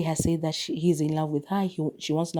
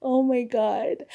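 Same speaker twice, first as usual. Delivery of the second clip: shocked gasp; 4 semitones higher, slower than usual. Retold or imitated. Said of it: "I was like".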